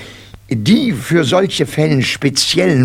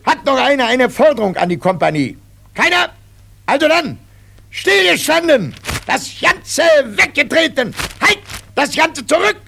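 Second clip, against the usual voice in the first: drill sergeant; 12 semitones higher than usual. Acted.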